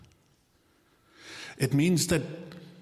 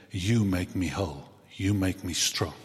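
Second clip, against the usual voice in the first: tender country-song line; 4 semitones lower than usual. Retold or imitated. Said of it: "Sounds like a country song".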